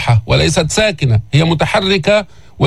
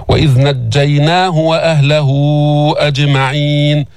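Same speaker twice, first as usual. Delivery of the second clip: Quran recitation. Shown as a demonstration. Teacher models the verse for learners, measured recitation. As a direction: draw out the long vowels on an even tone.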